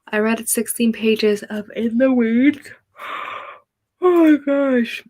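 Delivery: loud excited gasp. Real, not acted. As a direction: gush with excitement. Reacts excitedly to viewer comment.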